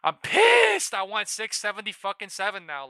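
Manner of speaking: high, loud screaming rage; furious yell. Real, not acted. Trader screaming at the market over losses. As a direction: scream it at the screen. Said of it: "I'm actually fucking pissed".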